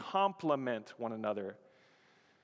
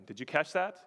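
ordinary delivery

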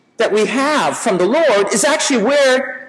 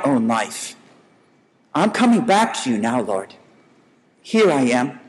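sample prayer; 3 semitones lower than usual. Shown as a demonstration. Preacher modelling a prayer for the congregation, earnest and fading. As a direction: pray it humbly, letting it sink to a hush at the end.

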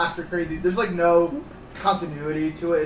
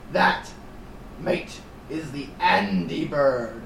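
mock British; 4 dB quieter, slower than usual. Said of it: "crazy British guy goes".

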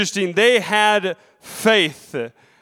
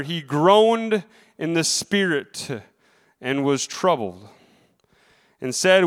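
measured, solemn Bible reading; scripture reading. Acted. Preacher reading the Bible to his congregation, solemn reading. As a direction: read the passage to the congregation. Reads scripture aloud in church.

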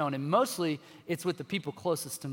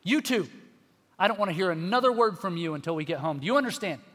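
stern snap. Retold or imitated. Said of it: "Snap at my kids".

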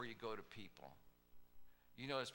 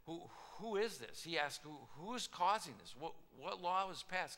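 higher and louder, stammering indignation; indignant demand; 6 semitones higher, 5 dB louder than usual. Acted. King demanding who threatened his queen, higher and louder. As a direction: demand an answer, outraged and sputtering.

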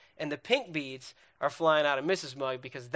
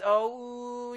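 lovey-dovey coo; 6 semitones higher than usual. Acted. Mimicking lovey-dovey dating couple.

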